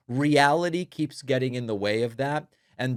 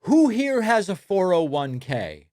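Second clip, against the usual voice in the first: imitating Trump; 7 semitones higher, 5 dB louder than usual. Host mimics Trump quizzing crowd, hammed-up. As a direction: ham up the rally question. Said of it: "where Trump goes".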